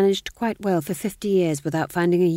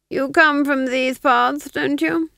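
higher, slow silky probing; sly Duke; 9 semitones higher, 7 dB louder, slower than usual. Acted. Duke slyly probing the fool, slow and silky. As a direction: coax it out of him slowly.

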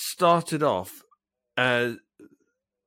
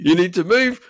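higher, louder driver's warning; mock exasperated shout; 4 semitones higher, 6 dB louder than usual. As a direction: play the driver losing patience with a pigeon. Acted driver losing patience.

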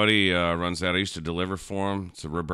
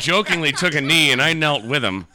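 amused retelling; 7 semitones higher, 7 dB louder than usual. Real, not acted. Laughing retelling.

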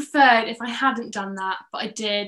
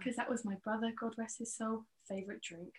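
put-on Welsh accent; 19 dB quieter than usual. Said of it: "not very good at the Welsh accent".

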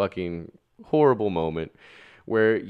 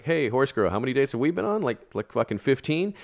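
mocking call-out; 9 semitones higher than usual. Calling out girlfriend mockingly.

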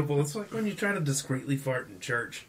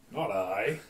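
ordinary talk

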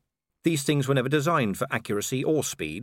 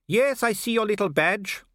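high, put-on villain voice; mock him from high in your range; taunting werewolf villain; 10 semitones higher than usual. Werewolf sneering at the watchman's little badge, high and taunting.

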